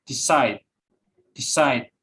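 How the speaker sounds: "decide" stressed on CIDE, falling on it; second-syllable stress. Shown as a demonstration. Student presenter showing verb stress, "decide" stressed on CIDE. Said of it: "Most verb have stress on".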